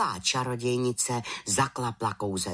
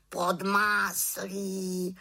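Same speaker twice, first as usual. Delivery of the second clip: high, slow, drawn-out raven voice; raven croak; 9 semitones higher, much slower than usual. A narrator's reading. Raven echoes what fell from the cloud, slow high croak. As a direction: croak it slowly in a high bird voice. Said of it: "krákal havran".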